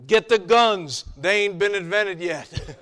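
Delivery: loud, urgent commander, laughing at the end; mock panicked order. Joshua to advisor, a loud mock panicked order. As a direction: bark it like a flustered general.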